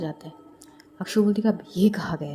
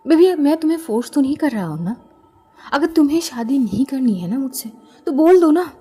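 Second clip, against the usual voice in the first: irritated pleading; 4 semitones higher than usual. Acted. Fiancé snapping at his distant bride, annoyed. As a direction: push harder with each line, annoyed. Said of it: "Nitin भी थोड़ा बहुत एकदम से चिढ़ जाता है".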